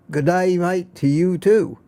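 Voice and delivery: lightly put-on Australian greeting; a touch of mock Aussie; Aussie accent. Host returns a greeting to an Australian friend, light Aussie accent. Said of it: "how to speak Aussie".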